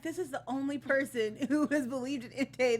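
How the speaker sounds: lightly mocking incredulous rant; mock exasperated rant. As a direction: rant at Ash in mock disbelief. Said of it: "And I'm like".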